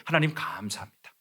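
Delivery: breathless, overjoyed thanks to God; Nehemiah's thrilled silent prayer before the king; excited prayer. Retold or imitated. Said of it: "이렇게 기도했을 거예요".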